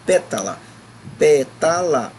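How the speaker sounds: pétala repeated deliberately, "pé" punched; stress on first syllable. Shown as a demonstration. Teacher shows pupils where it is strong, "pé" of pétala stressed. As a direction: punch "pé", then let "tala" follow. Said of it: "o pé é a palavra mais".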